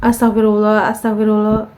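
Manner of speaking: mock the prayer lightly, repeating it; mildly taunting sing-song imitation. Shown as a demonstration. Reader showing how the ghost mocked the prayer, lightly taunting. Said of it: "Jadi kayak".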